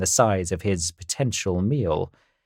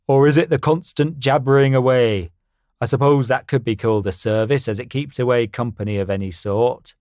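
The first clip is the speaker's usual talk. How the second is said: louder, boastful stallion; confident horse voice; 2 semitones higher, 3 dB louder than usual. Acted. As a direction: puff up like a proud horse. Harry voiced in story.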